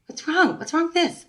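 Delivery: retelling her own startled cry at the broken speakers; high, alarmed questions at the mic; shocked panic. Retold or imitated. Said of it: "I was pointing at the mic going".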